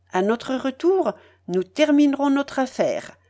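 high, animated lady making plans; lively, capricious Madame Polosov. Acted. Voices Madame Polosov setting out plan. (dame capricieuse et pressante, voix aiguë)

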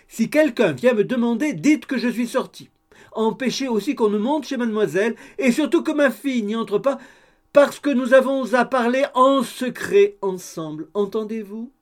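high, loud orders down the stairs, a laugh breaking in; calling down. A narrator's reading. Landlady ordering her cook from the stairs, loud and high. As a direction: shout instructions so the whole house hears. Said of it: "lui cria-t-elle".

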